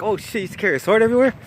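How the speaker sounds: high, quick incredulous question; amused disbelief. Retold or imitated. Narrator laughs at cellmate's sword tale, amused disbelief. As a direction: retell it as tickled disbelief. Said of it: "So I started laughing".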